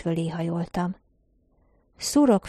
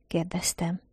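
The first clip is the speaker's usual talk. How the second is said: whispered tag; 7 dB quieter than usual. A narrator's reading. Narrator's tag after a question.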